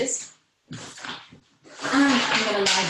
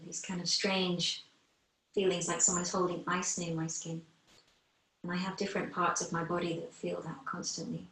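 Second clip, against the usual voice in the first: guided meditation; 2 semitones lower than usual. Acted. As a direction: ease the class into noticing their breath, gently. Teacher leads guided breathing meditation.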